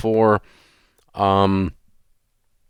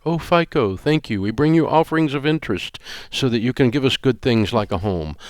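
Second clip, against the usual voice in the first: lightly hammed-up worshipper, higher; mock worship; 4 semitones higher than usual. Mocking debt-takers worshipping the credit score, sarcastic prayer. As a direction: pray to fico in a sarcastic offering voice. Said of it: "worship at the altar".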